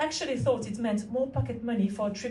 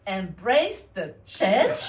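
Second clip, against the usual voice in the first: incredulous echo; 2 semitones lower, much slower than usual. Acted.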